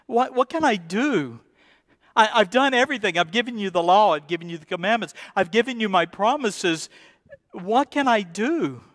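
desperate, pleading voice of God; God's desperation. Acted. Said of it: "in the sense of God's desperation".

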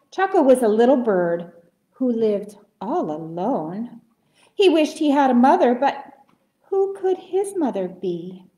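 lively, expressive picture-book narration; storytime reading. A narrator's reading. Storyteller introduces lonely little bird Choco, animated reading. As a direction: read to little children with swooping intonation.

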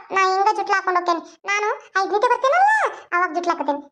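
put-on a small girl complaining to her mother; little girl. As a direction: speak as a whining schoolgirl.

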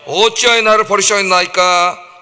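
loud, slow cry of abandonment; anguished cry. Retold or imitated. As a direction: cry it out, drawn out slowly. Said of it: "외칩니다".

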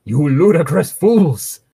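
slow theatrical scolding, half-shouted; acted shout. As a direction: stretch out the outrage, slightly high. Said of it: "he shouted".

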